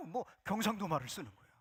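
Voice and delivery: ordinary talk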